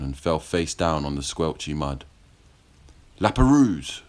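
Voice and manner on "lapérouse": high, loud furious cry of the name; angry yell. A narrator's reading. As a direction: yell his name in shock and anger. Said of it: "Joseph yelled in anger".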